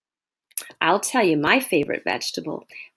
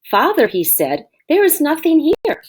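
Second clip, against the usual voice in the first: put-on high, let-down little boy; disappointed child; 8 semitones higher than usual. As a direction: sound like a child finding nothing. Oliver disappointed, seed not up.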